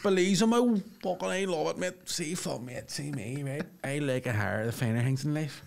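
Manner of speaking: lightly voiced spide, showing off refined tastes; mock-savouring Belfast lad; Belfast lad gourmet. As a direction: play a Belfast lad as a food snob.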